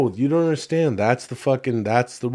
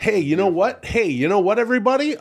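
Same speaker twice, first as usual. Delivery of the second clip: hype call; 9 semitones higher than usual. Acted. Stoned host hyping up audience.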